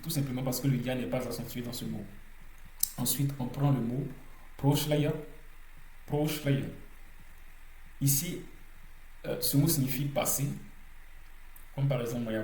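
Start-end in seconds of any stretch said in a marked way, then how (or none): 4.6-6.7 proshlaya with the first syllable "pro" emphasized; stressed o. Shown as a demonstration. Teacher modelling the word for learners, proshlaya stressed on the o. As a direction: lean on the o of proshlaya, then let it fall. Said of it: "c'est le o qui est accentué".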